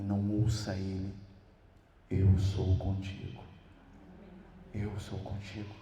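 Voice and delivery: slow, low, reassuring; tender divine voice. Acted. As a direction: breathe each "Eu sou contigo" gently. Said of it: "uma outra voz dizia pra ele". (a voz de Deus, lenta e acolhedora)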